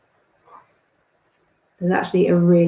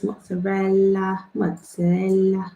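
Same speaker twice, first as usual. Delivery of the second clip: slow, drawn-out attempt at an Italian accent; slower than usual. Shown as a demonstration. Pizza doodler trying the Italian word for cheese, attempted Italian accent. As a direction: have a go at saying it like an Italian. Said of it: "Can't do the accent, sorry".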